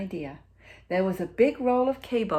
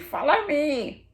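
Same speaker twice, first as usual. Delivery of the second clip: higher, slow and louder call to the ducklings; mother duck calling; 9 semitones higher, 6 dB louder, slower than usual. A narrator's reading. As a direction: lead the little ones along, slowly. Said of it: "Mama Duck called to her brood".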